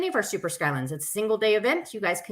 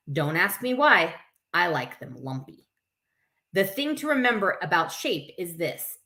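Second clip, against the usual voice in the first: put-on lively read-aloud to children; story reading; 3 semitones lower than usual. A narrator's reading. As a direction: read it to a circle of kids. Reads picture book aloud.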